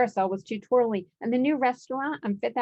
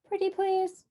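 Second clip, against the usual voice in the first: much higher pleading sheep voices; 11 semitones higher than usual. A narrator's reading. The flock begging Cyclops, high pleading voice. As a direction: beg sweetly. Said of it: "said the flock".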